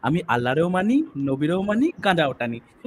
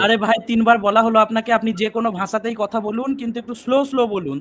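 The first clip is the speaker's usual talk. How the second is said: raised, higher exasperated voice; 5 semitones higher than usual. Real, not acted. Host exasperated after repeating thrice. (বিরক্ত হয়ে উঁচু গলায়)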